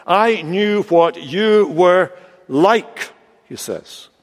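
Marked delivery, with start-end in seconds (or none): 0.1-3.1 very slow accusation, word by word; deliberate, drawn-out reproach; blaming excuse. Acted. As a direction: spell out the blame to God. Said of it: "Making an excuse".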